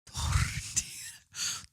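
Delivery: drawn-out TORTILLA with an attempted rolled R. Shown as a demonstration. Podcaster testing Spanish on herself, attempted rolled R in Tortilla. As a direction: stretch out Tortilla, trying to trill the R. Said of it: "R to be rolled".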